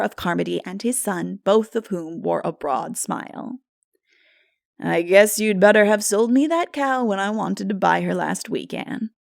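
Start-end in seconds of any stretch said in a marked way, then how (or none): 4.8-9.1 put-on amused old farmer teasing the girl; chuckling. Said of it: "chuckled Mister Shearer".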